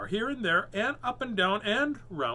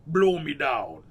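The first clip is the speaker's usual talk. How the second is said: loud pirate exclamation; louder surprised pirate cry; cried out; 6 dB louder than usual. Acted. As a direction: call it out in surprise across the water. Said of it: "he cried".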